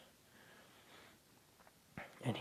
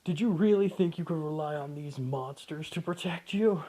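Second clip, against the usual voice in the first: villain taunt; 4 semitones higher, 4 dB louder than usual. Acted. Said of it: "hysterically laughing, just going".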